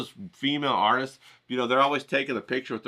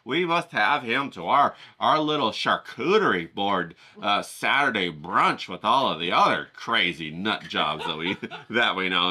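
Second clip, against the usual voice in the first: posh art patron; 3 semitones lower than usual. Acted. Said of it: "They want their artist to be like".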